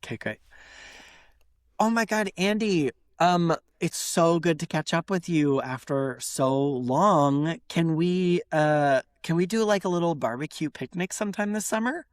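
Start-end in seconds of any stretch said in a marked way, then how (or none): 1.8-12.0 put-on gushing old friend. Old friend asking for a summer picnic, gushing. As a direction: ease sweetly into a hopeful request. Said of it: "Can I ask you a question?".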